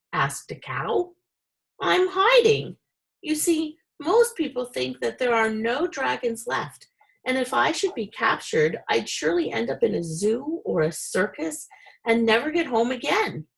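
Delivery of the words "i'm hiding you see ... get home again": much higher little dragon voice; small and worried, like a baby dragon. Acted. Baby dragon telling the cows why he hides, high and small.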